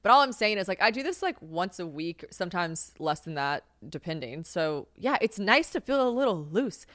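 ordinary talk, nothing marked

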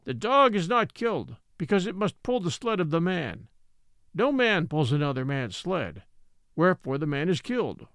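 lightly voiced elder laying down law; old Ebbets, solemn. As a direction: state the law with measured gravity.

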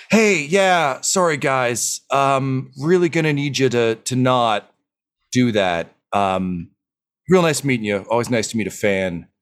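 crackling radio voice; voice through static. Acted. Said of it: "a crackling voice say".

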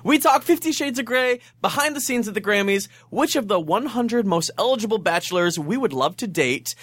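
lively podcast promo read; upbeat scripted show preview; episode teaser read. Acted. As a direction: sell the episode, line by line.

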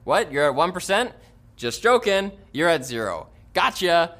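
prankster voice. Pretend. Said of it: "trying to pull a hilarious prank on us".

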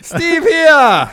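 high, loud barker; carnival barker. Pretend. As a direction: present him grandly. Barker introduces.

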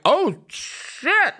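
a hammed-up scandalized gasp; shocked gasp. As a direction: react like you can't believe it. Friends shocked at the slur.

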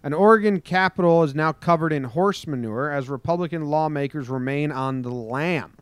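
punchy newscaster delivery; news headline read. Acted. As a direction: announce the headline.

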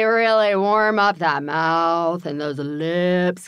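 "really warm up" drawn out slowly; stress on really. Shown as a demonstration. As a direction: lean hard on "really" and stretch it. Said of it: "one of my favorites to really".

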